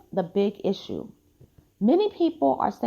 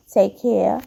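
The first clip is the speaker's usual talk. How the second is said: yawning; 4 dB louder than usual. Real, not acted. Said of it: "I apologize for the yawning".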